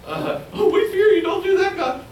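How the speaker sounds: high, pleading mock prayer of caught sinners; high desperate mock plea to God. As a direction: beg God like a caught hypocrite. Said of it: "maybe even these bad people say".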